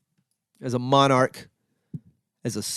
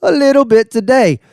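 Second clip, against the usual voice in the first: laughing; 4 semitones higher, 5 dB louder than usual. Real, not acted. Comic admitting last-minute research, laughing. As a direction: laugh through the words.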